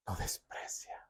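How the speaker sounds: unvoiced hush on the last words; dramatic whisper ending the verse; whispered scripture. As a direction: breathe it like a secret warning.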